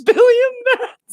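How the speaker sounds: laughing hard. Real, not acted. Helpless laughing fit.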